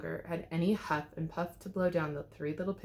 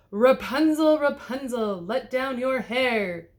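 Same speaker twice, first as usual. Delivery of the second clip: loud, higher call up to the tower; 4 semitones higher, 6 dB louder, slower than usual. A narrator's reading. The prince calling up to Rapunzel, loud. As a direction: call out to her window. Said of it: "called the prince".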